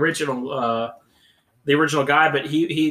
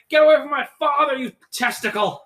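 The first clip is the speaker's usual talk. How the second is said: mock outraged yell; 10 semitones higher than usual. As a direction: yell it like an indignant movie line. Quoting film line in outrage.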